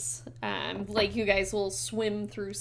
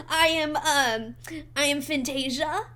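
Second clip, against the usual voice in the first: lilting fish lady; 5 semitones higher, 3 dB louder than usual. Acted. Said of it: "and they go".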